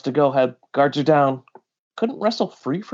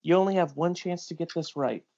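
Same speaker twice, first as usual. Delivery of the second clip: menacing threat; 3 semitones lower, 4 dB quieter than usual. Acted. S2 voices captor's threat.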